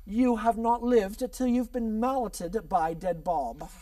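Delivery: slow, declaiming mock English accent; hammy English accent; bad English accent. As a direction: proclaim it in a fake English accent. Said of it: "let me get rid of this accent".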